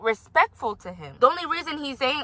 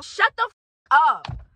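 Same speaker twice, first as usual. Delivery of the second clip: frustrated outburst; 6 semitones higher, much slower than usual. Real, not acted. Furious at the elder's reply.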